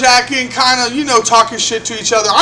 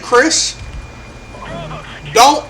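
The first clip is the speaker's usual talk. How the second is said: measured warning with long pauses; retold calm warning; 4 dB quieter, slower than usual. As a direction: say it evenly, letting each part land. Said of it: "I just calmly said to him".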